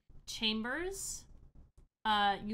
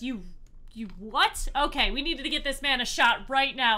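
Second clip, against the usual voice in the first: incredulous outburst; 3 semitones higher, 7 dB louder than usual. Acted. Jacob shocked, demands a shot.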